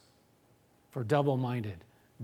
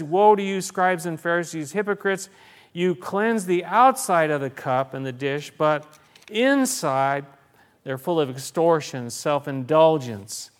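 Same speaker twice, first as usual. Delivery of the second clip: forceful preaching; 5 dB louder than usual. Acted. Preacher proclaims Jesus' woe to Pharisees.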